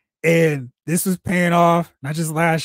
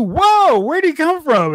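much higher, shocked gasp of a fan; surprised; 10 semitones higher, slower than usual. Retold or imitated. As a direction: yelp it like he came from nowhere.

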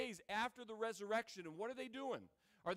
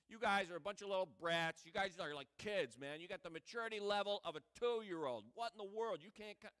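mock scolding. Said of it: "He's not going like".

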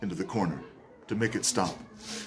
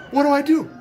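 exasperated outcry; 12 semitones higher, 7 dB louder, faster than usual. Retold or imitated. Desperate husband at truck stop.

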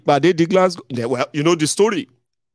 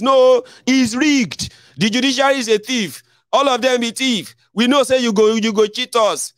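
high mocking voice of a sore loser; defiant denier; 9 semitones higher than usual. Commentator mocking a sore loser: high, indignant. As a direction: mimic the one crying it's rigged, pitched up.

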